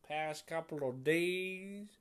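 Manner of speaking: put-on slow, drawled southern accent. Talking about enjoying country music, southern accent. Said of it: "doing the southern accent".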